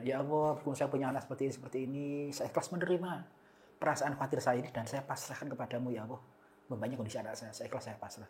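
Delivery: soft prayer fading down to a hush; quiet prayer. Retold or imitated. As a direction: murmur the prayer of surrender. Mother prays in surrender.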